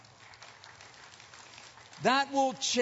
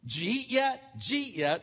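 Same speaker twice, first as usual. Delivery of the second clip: imitated Southern slur, run together as "jeet yet"; Southern dialect; 3 semitones higher than usual. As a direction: say "Did you eat yet" as a quick Southern "jeet yet". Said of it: "you know how they talk there".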